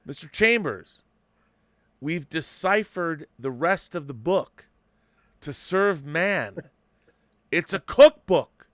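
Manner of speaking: high, slow, building to a loud reveal; mock-dramatic secretary, climbing to a loud punchline; hammed-up twist line, ending loud and high; secretary's reveal. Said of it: "his secretary comes out and goes".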